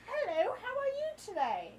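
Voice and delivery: high, chirpy mock greeting; hammed-up waiter hello; over-friendly waiter.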